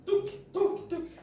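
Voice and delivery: high little heartbeat thumps; imitated heartbeat. Shown as a demonstration. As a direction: tap out a heartbeat with the voice. (imitando batidas do coração)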